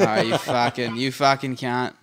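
playful fake Aussie swearing; jokey Aussie insult; mock Australian. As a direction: rib a mate in a put-on Australian accent. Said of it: "we were just talking Australian".

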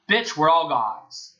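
slow, lightly mocked attitude; imitating a cocky comeback; Winston. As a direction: draw it out with a touch of swagger. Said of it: "he had that tone in his voice".

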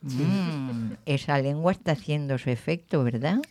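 talking with a mouth full of raisin; words round a raisin held in the mouth. Real, not acted. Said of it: "tengo la pasa en la boca".

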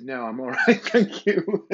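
polite refusal breaking into laughter; laughing retold refusal. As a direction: crack up as you quote yourself declining.

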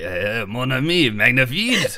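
mock French accent; lightly put-on French accent; Ratatouille. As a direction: try a hammy little French accent. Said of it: "okay, channel my inner Ratatouille".

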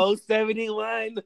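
slow, drawn-out bingo call; bingo caller. Retold or imitated. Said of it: "Seen the bingo caller".

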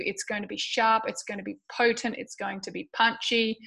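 hoarse, strained throat. Real, not acted. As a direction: push through a strained voice. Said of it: "my voice is, um, a little strained".

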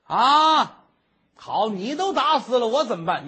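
maid cries out, loud and high, half laughing; alarmed outcry. Acted. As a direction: blurt it out in a panic. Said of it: "你别喊，你别喊". (丫鬟惊慌大喊)

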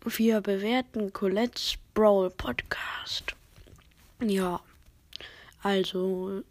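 drowsy, half-whispered; nodding off. Real, not acted. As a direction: fight to stay awake. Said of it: "Ich bin so müde".

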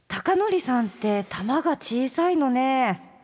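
slow, teasing belittlement; mocking. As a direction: draw it out to needle him. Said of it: "高典さんの肝っ玉が小さい性格をバカにしてる".

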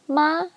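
"ma" high and level; high-level first tone. Shown as a demonstration. Teacher recapping first tone, "ma" high and level. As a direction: hold "ma" up on one pitch. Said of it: "first tone".

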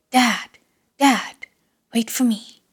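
put-on a small boy yelling after his father. A narrator's reading. Guzi chasing his fleeing dad, yelling desperately. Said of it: "while yelling".

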